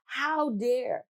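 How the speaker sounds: slow, high, indignant demand; indignant how dare. Retold or imitated. A passed-over employee retells her anger at the company, slow and indignant. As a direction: drag out how dare you, offended. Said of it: "I was mad as hell".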